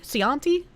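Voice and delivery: "Chianti" tried as see-AHN-tee, questioning; unsure pronunciation. Shown as a demonstration. Streamer trying a wine name, "Chianti" guessed as see-ahn-tee. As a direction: say "Chianti" with an s start and an ah, rising. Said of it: "I don't know how to pronounce that".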